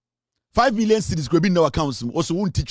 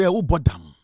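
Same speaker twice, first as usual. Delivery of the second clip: scornful question; 4 semitones lower, slower than usual. Retold or imitated. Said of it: "Me say".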